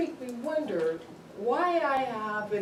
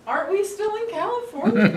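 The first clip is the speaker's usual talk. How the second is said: higher, louder, laughing through it; mock innocent reply; 12 semitones higher, 8 dB louder than usual. Answering the officer, mock innocent and laughing. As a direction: play dumb with a giggle. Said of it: "I said".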